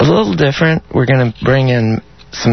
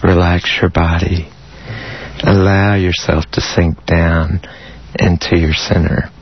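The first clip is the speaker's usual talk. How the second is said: guided meditation; 3 semitones lower than usual. Acted. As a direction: ease them into calm with long pauses. Leads an erotic guided meditation.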